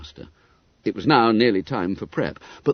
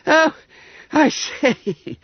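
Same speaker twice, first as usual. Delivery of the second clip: breathed dismay; 4 dB louder, much slower than usual. Acted. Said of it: "breathed Bob".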